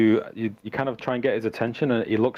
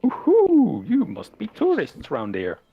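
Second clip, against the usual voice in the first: high, loud farmer's whoop easing into speech; Bildrath; 12 semitones higher, 5 dB louder, slower than usual. Acted. Farmer sees tourists climbing shoulders, high hooting amazement. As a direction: whoop at the sight, then hail the tourists. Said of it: "he's like".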